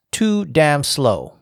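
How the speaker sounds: slow, deliberate quoted rebuke; all-caps emphasis. Retold or imitated. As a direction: space out each capitalized word. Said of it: "in all caps".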